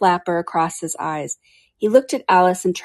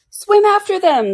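high, slow, drawn-out scream in character; 13 semitones higher, 7 dB louder than usual. A narrator's reading. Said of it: "screamed the Griffin".

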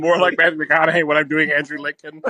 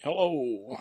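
high, soft, wavering hello; timid, thin impression voice on the phone; George Lucas; 6 semitones higher, 6 dB quieter than usual. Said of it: "this is George Lucas".

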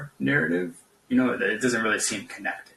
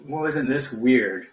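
higher, slow, leading insinuation; insinuating mock question; 4 semitones higher, slower than usual. Mocking conspiracy theorists, a slow insinuating question. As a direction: plant the doubt with a raised eyebrow. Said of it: "a insinuation".

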